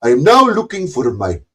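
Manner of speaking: put-on Indian accent, lightly done; a parody rival voice with a mild Indian accent; Snafu in mock Indian accent. YouTuber mocking his rival Snafu in a mild put-on Indian accent. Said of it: "my Indian accent".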